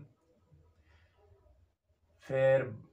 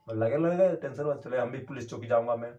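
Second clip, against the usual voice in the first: defiant retort; 2 semitones higher, 3 dB louder than usual. Retold or imitated. Defiant reply to police.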